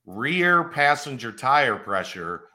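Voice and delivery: slow robotic dashboard alert; car alert voice. Retold or imitated. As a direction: read it out like a warning display. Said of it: "The alert popped up on my screen".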